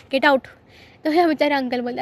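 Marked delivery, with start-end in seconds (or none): 0.1-0.5 louder snapped get out. Retold or imitated. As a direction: throw him out with it. Throwing him out, acted.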